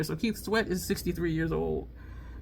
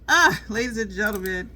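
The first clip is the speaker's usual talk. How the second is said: lightly voiced showman greeting; a hint of a stage host opening his show; mock announcer hello to the crowd; imitating comedian's intro; 2 semitones higher, 5 dB louder than usual. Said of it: "he was like".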